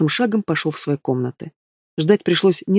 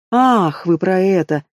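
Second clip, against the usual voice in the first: dismissive; 3 semitones higher, slower than usual. Acted. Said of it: "отмахнулась Магиана".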